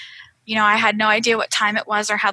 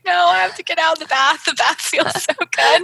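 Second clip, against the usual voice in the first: high-pitched mock whine; retold protest, pleading and pitched way up; almost crying; 7 semitones higher, 3 dB louder than usual. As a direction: whine it like you're near tears. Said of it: "I almost started crying".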